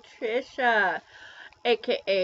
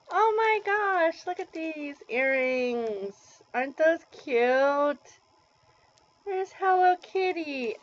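excited; 5 semitones higher than usual. Real, not acted. Finds earrings in gift.

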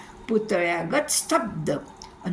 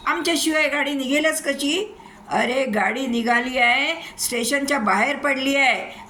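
higher, urgent voices of railway staff; frantic station officials; 6 semitones higher than usual. Acted. Station boss and pilots panic over runaway train, higher urgent voices. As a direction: raise the alarm and demand answers.

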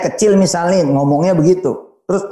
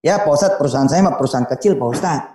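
humble client; 4 semitones lower, faster than usual. Retold or imitated. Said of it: "Contoh nih".

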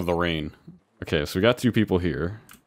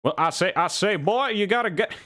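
higher, blustering southern rooster; Foghorn Leghorn; 12 semitones higher than usual. Acted. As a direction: boom like a cartoon rooster.

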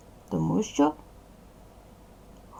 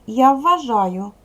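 model answer; 2 semitones higher than usual. Shown as a demonstration. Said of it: "Розказуйте так".

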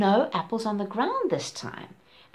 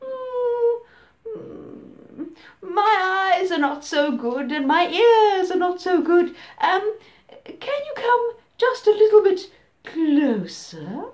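loud, oily crocodile voice; a sneaky predator faking kindness; sly crocodile; 8 semitones higher, 6 dB louder, slower than usual. Acted. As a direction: crocodile coaxing the little elephant. Crocodile luring closer.

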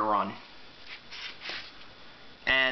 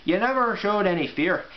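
light pseudo-Scottish-Irish otter voice; proud otter in a loose Scottish-Irish accent; 3 semitones higher than usual. Acted. Otter praises Dottie, light pseudo-Scottish-Irish accent. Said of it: "giving him a pseudo-Scottish-Irish accent".

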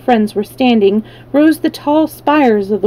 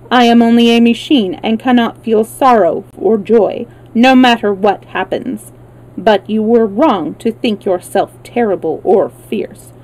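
measured, evenly spaced mechanical delivery; a hint of a matter-of-fact machine; lightly voiced machine man.

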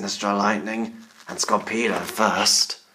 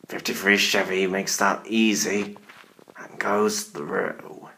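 spooky put-on announcer voice; scary Halloween voice. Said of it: "I'm using my scary Halloween voice".

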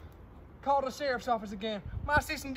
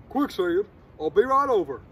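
gruff sheriff; 5 semitones lower, 7 dB louder than usual. Pretend. Sheriff answers the phone.

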